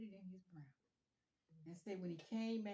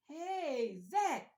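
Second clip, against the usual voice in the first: high, loud delighted hello; excited greeting; 7 semitones higher, 10 dB louder than usual. Retold or imitated. Happy lady hailing Zach down the street, excited. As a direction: greet him like you're thrilled.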